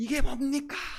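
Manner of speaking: high, desperate crying out.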